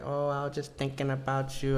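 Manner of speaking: high, mocking girlfriend voice; put-on girlfriend impression; imitated ex. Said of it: "she's like".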